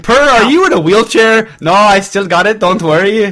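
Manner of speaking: lightly put-on French accent; a joking hint of French accent for a Swedish player; half-hearted French-accented player voice; mock French accent. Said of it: "I don't know why I'm speaking French".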